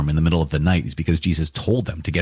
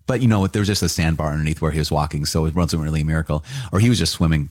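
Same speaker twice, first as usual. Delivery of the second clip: deadpan mock skepticism; dry sarcasm; faster than usual. Real, not acted. Lecturer mocking miracle-deniers, in dry deadpan sarcasm. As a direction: say it straight-faced, dripping sarcasm. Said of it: "done with the sarcasm".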